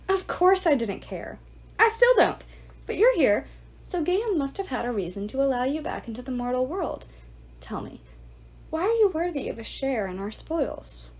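lightly voiced sneering ghoul lord; a hint of a cruel suitor; Antinous, mocking. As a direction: taunt him like a smug host.

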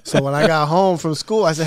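ordinary delivery

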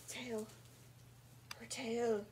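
hushed, amazed whisper; awed whisper. Real, not acted. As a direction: breathe it in wonder. Gasp then whisper.

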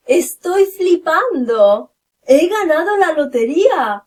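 high, loud thrilled outburst; amazed excitement. Shown as a demonstration. Acts amazement at winning lottery.

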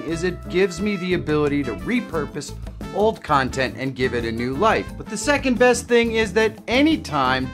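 upbeat, projected sponsor pitch; sponsor ad read. Acted. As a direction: sell it like a video sponsor spot. Reads the sponsor segment.

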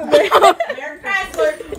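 slow, laughing Merry Chrysler; laughing slowly. Shown as a demonstration. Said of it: "Merry Chrysler".

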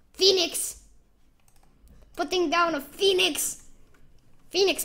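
high, loud announcer-style callout; hype callout. Real, not acted. A player hyping his Phoenix like an announcer. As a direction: proclaim it like a caster.

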